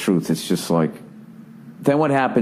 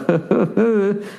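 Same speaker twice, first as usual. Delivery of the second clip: higher, forced nervous little laugh; awkward anchor chuckle; 9 semitones higher than usual. Retold or imitated. Mimicking a TV anchor, a nervous mock chuckle. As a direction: laugh it off like an uneasy newsreader. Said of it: "they kinda do that".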